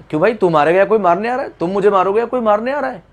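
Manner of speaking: hammed-up scared protest; mock alarm. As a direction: act out a frightened listener demanding to know why. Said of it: "तुमने तो सुनकर डर जाना है".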